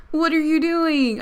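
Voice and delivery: a high, loud, slowed disbelieving laugh-question; laugh, then ask it in real disbelief; incredulous laugh. Real, not acted. Watching drunk Marco in Gabby's house, incredulous high and loud.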